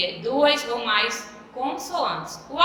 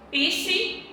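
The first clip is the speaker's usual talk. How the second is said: "psique" raised high, broken after PSI; syllable split; 7 semitones higher than usual. Shown as a demonstration. Teacher showing how psique divides, syllable split. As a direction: hold PSI together, then pause before QUE. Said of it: "a mesma coisa".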